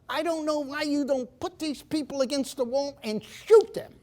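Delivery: put-on high, indignant Austrian-accented rant; a fanatical Austrian scolding Americans; imitating an Austrian economist berating his audience; Austrian accent, outraged. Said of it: "he spoke with this Austrian thick accent".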